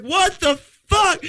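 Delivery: high, drawn-out shocked cry; mock shock. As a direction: imitate her shock, high and slow. Retold shocked reaction to vomiting.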